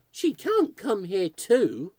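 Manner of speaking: high, loud, slow wail; girl wailing at another ghost arriving.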